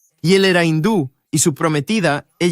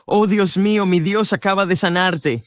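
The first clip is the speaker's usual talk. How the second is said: pitched higher in stunned wonder; shocked amazement; 4 semitones higher than usual. Retold or imitated. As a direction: retell the shock of the miracle. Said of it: "estábamos los dos como en shock".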